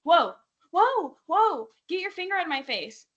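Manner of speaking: a high, loud, startled 'whoa, whoa' pushing someone back; mock alarmed yell. Kaylor at movie night fending off a pointed finger, mock alarmed yell. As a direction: retell her yelling at someone's pointed finger. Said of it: "She's going".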